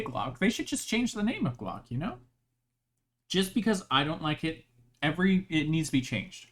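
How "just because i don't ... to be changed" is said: talking through a mouthful of food; chewing while speaking; mouth full. Real, not acted. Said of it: "Sorry, I'm eating as well".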